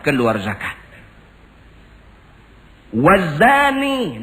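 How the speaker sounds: high, loud preaching with chanted Arabic verses, slow on the Arabic; fiery pulpit sermon, slow chanted Arabic lines; forceful sermon preaching. Acted.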